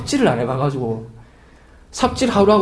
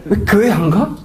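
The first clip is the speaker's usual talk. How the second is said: put-on child's voice; 3 semitones higher than usual. Son asks his pastor dad why no church, in a mock child's voice. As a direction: voice a small son asking questions. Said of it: "우리 큰아들 도빈이가".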